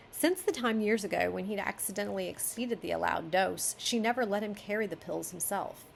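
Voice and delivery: even reading voice; story narration. Acted. Editor reading the author's chapter aloud, story narration. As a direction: read the prose through cleanly.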